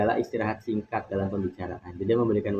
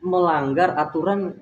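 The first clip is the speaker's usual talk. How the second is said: angry snapping tone; 7 semitones higher, 5 dB louder than usual. Shown as a demonstration. Student showing listeners how anger sounds, raised snapping tone. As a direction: demonstrate anger with a high, forceful intonation. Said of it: "seperti menyentak seperti itu".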